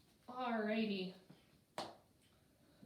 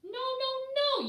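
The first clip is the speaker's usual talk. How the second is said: high, louder mock protest; playful no no no; 14 semitones higher, 6 dB louder than usual. Reader correcting the singing pigs, high playful protest. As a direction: tease the kids that it's wrong.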